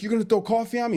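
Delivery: high, squeaky imitation of shocked disbelief; mock outrage. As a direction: parody the shock of being splashed. Jake outraged at coffee.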